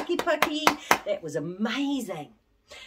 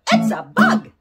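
call-out; 10 dB louder than usual. Shown as a demonstration. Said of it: "like that".

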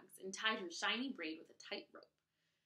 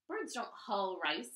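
slow, louder scornful scoff; 6 dB louder, slower than usual. Acted. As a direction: drag it out with contempt. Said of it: "scoffed Amoni".

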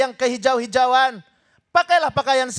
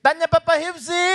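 tagline call-out. Pretend. Host cues the female guest, tagline call-out. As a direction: call out the tagline for her to answer. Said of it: "Berli kali bisa".

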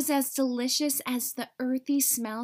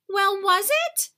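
eager demand; 8 semitones higher, 7 dB louder than usual. A narrator's reading. Eager dog rushing to tree.

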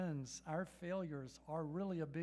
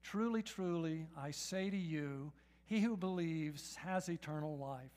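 slow reading; 3 semitones lower than usual. Shown as a demonstration. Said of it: "will you read this verse with me".

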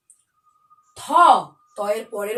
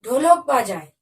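put-on sing-song rhyme read to young children; alphabet rhyme recitation; slower than usual. Teacher reciting the Bengali alphabet rhyme to pupils, sing-song. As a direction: chant each letter's verse for the class.

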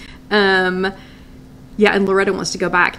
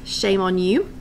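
mock scolding; slower than usual. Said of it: "Just kidding".

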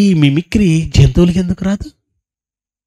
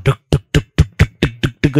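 bullet engine thud; 3 semitones lower, 4 dB quieter, much faster than usual. Retold or imitated. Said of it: "bullet sound".

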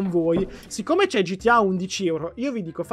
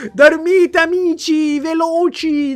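loud, high call to sleep; loud command; 7 semitones higher, 7 dB louder, much slower than usual. Real, not acted. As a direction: shout it out to the fans, go to sleep. Ordina ai fan di dormire. (ordine gridato, acuto)

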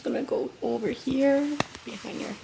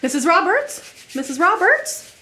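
urgent, loud call of name; rousing an unresponsive patient; calling out loudly; 6 semitones higher, 10 dB louder, slower than usual. Acted. Nurse calls unresponsive patient.

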